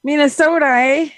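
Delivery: put-on light, playful Minnesota accent with a tagged-on eh; mock Minnesota accent. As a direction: tease him in a hammed-up Minnesota accent. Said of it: "I was trying to do the accent".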